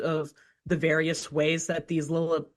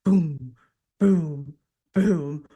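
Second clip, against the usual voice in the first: stomp sounds; 3 semitones lower, 3 dB louder, much slower than usual. Retold or imitated. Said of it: "reverberating stomps".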